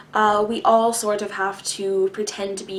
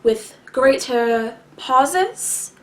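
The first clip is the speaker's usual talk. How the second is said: slow, deliberate phrasing with greater pauses; greater pauses, head voice; 4 dB louder, much slower than usual. Shown as a demonstration. Showing viewers their own way of talking, slow with pauses. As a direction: stretch it out and let the pauses sit. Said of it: "with greater pauses. My voice comes more from the head".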